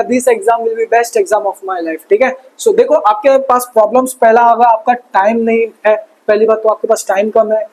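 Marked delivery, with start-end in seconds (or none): 0.0-2.1 slow, deliberate self-affirmation, every word spaced. Shown as a demonstration. Teacher tells students to repeat this slowly. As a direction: say it slowly like a vow to yourself. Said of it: "और हर बच्चा comment करेगा".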